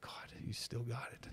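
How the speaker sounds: hushed, slow, breath-only retold remark; whispered aside. Dad reacting to his defensive son, whispered.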